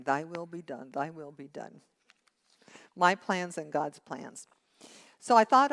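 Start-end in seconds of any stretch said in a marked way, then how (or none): 0.0-1.8 quiet prayer. Retold or imitated. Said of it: "practicing not my will".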